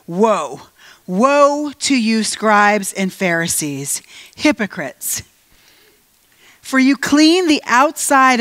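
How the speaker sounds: slow, weighty prophetic reading; scripture rebuke read dramatically. Acted. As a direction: proclaim each woe slowly like a stern prophet. Preacher reading Jesus' rebuke.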